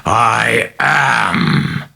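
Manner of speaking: booming roar. Acted. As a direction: let it crackle off the walls. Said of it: "terrifying voice boomed crackling off the walls".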